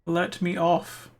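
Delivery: slow, stretched-out pleading; drawn-out plea. Real, not acted. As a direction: stretch each word begging.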